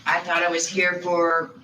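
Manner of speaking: raspy smoker's voice; rough, smoke-worn voice; smoker's rasp. Real, not acted. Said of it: "Smoker's voice, too".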